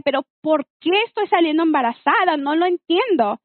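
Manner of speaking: reenacting her own angry disbelief; retelling how she protested, exasperated; retold exasperation. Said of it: "Y yo estaba enojada".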